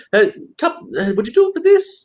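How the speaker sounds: high, coaxing mock-sweet ask; butter them up in a high voice; a high wheedling request for a discount; sweet-talking buyer. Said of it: "I can really, uh, get that".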